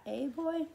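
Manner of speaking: put-on the woman teasing the boy, silky and drawn out. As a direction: draw out the word boy slowly, a hint of an accent. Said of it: "silky and stretched out to two syllables".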